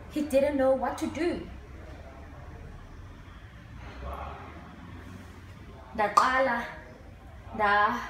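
halting grief monologue, long pauses; dramatic monologue. Acted. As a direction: play a bereaved child recalling the funeral, haltingly.

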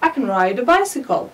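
can said weak and linked, kən; teacher models can as a light unstressed kən; weak form of can. Shown as a demonstration. Teacher shows students the weak can in a sentence. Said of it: "ووصلتها بالكلمة التي قبلها".

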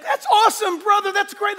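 high, loud mock enthusiasm; enthusiastic greeting. Church member gushing at the pastor, loud and excited. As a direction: gush like a thrilled church member.

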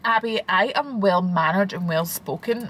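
slow, put-on posh accent; fake posh voice. Mum insisting she is well-spoken, fake posh accent. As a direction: imitate a mum putting on posh speech. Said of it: "you put on your fake posh voice".

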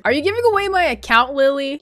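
high, fast accusing question; pointed, indignant question; confronting. Real, not acted. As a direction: confront her about the account. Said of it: "I'm gonna confront her".

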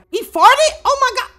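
high, loud disbelief; shocked. Real, not acted. Player seeing his character fart, loud shocked outcry. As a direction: cry out in scandalised surprise.

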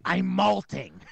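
high, loud parrot squawk; loud, high mock bird voice; parrot impression. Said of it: "I thought he said".

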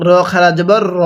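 "র" as a rounded, held "ro"; heavy র. Shown as a demonstration. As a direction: say the last "র" full and long, not "ra". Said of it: "এরকমভাবে পড়তে হবে". ("র" মোটা করে টেনে উচ্চারণ)

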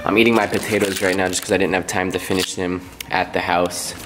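talking through hot food; mouth full of hot food. Real, not acted. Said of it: "My mouth is on fire".

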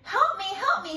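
high frantic squeak; squeaky plea. A narrator's reading. Mouse begging panda for help. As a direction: beg in a tiny squeak. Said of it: "she squeaked".

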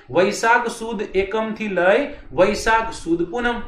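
slow, word-by-word dictation of the dates. Shown as a demonstration. Teacher dictating dates to exam students, slow. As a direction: spell it out slowly so students can note it. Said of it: "બોલો તો".

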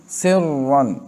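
सिर्रन with a full, heavy doubled R. Shown as a demonstration. Teacher models सिर्रन for the class, heavy R. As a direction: say सिर्रन with the doubled R thick, as one sound. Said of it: "रा को पुर पढ़ना है".

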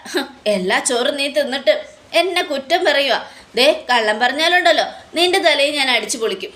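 mildly heated acted threat; angry scolding. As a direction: scold with a touch of temper. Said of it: "ദേഷ്യപ്പെട്ടുകൊണ്ടിരിക്കുക". (ചെറിയ ദേഷ്യത്തോടെ ശകാരിക്കുന്ന അഭിനയം)

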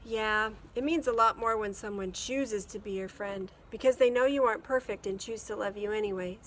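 put-on boy voice. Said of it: "Matt said".

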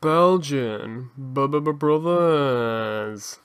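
drawn-out stuttered show title; showy intro. Acted. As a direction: stretch the title out like a host.

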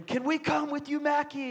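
put-on high, soft child's plea; begging. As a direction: imitate kids pleading with their little brother. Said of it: "they were begging him".

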